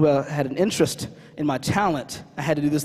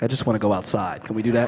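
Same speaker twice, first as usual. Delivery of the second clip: put-on low, deflated child's plea; lightly acted weary pleading, pitch dropped; deflated kid; 9 semitones lower than usual. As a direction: imitate a worn-down kid asking to quit.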